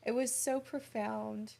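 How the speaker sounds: speaking through real tears, voice high; crying. Real, not acted. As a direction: let the tears come through the words. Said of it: "We need a tissue box".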